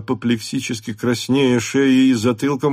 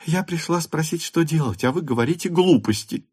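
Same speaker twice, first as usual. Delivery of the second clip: put-on sulky girl; 6 semitones higher than usual. A narrator's reading. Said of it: "сердито".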